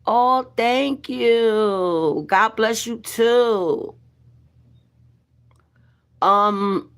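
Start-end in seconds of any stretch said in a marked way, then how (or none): 0.1-3.9 slow, drawn-out thanks; grateful. Real, not acted. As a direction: stretch out each thank-you and blessing. Thanking a generous viewer.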